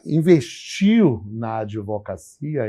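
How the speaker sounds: normal talking voice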